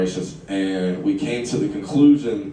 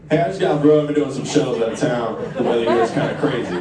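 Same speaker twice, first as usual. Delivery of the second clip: louder, higher breezy small talk; forced casual chat; 4 semitones higher, 4 dB louder than usual. Retold or imitated. Man fresh from alley chats up girl, forced breezy. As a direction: fake nonchalance to cover embarrassment.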